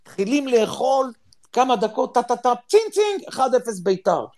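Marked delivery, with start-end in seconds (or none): 2.1-3.3 imitated phone alert pings.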